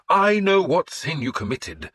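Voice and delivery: a hint of a stern priest; the priest admonishing his penitent lord. A narrator's reading. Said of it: "he said sternly".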